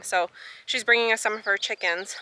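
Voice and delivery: talking around gum; words slurred by chewing. Real, not acted. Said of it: "I know I have gum in my mouth".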